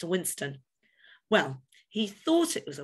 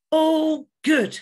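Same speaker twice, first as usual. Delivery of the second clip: much higher, louder relieved coo; a fussy pigeon cooing with relief; 11 semitones higher, 9 dB louder than usual. A narrator's reading. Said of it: "she cooed".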